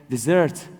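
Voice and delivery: "desert" said as dessert, stress on second syllable; mispronounced desert. Retold or imitated. Refugee explaining his origins, "desert" mistakenly said as di-ZERT. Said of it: "there is difference between desert and desert".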